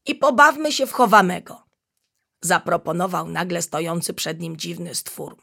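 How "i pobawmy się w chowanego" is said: playful chameleon. Acted. Playful chameleon invites a game.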